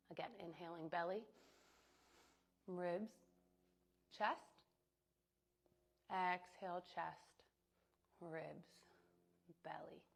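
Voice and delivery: measured cues with long pauses between words; calm yoga-teacher breath cueing; guided breathing cues. Acted. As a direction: count them through the breath, word by word. Leads a breathing exercise.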